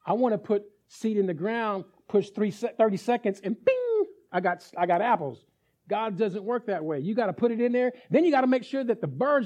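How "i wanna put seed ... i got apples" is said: lightly mock the one who wants apples now; impatient believer. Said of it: "Most of us is like".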